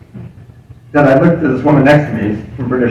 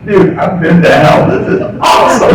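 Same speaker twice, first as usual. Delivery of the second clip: enthusiastic retort; 4 semitones higher, 3 dB louder than usual. Retold or imitated. Airport worker answering a gloomy coworker, enthusiastic. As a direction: build to a jubilant shout.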